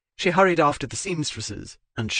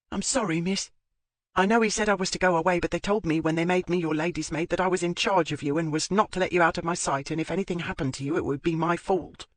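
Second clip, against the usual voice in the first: anxious maid; 4 semitones higher, faster than usual. Acted.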